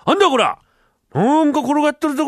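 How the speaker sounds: country bumpkin yelling at a bun; startled villager shout. Acted. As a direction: shout in alarm at the strange thing. Villager startled by strange object.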